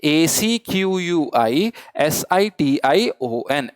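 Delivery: spelled out slowly letter by letter; slow, deliberate letter-by-letter spelling. Shown as a demonstration. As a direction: dictate each letter for the class to repeat. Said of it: "फिर से बोलिए मेरे साथ".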